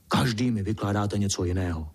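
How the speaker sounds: ordinary delivery, nothing marked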